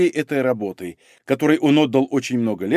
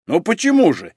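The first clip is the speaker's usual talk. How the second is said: lightly sarcastic, pitched up; caustic; 5 semitones higher than usual. Acted. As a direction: needle them with mock politeness. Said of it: "язвительно заметил Мамыкин". (язвительно)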